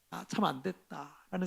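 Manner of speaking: soft sigh. Retold or imitated. Voicing inner self-pity.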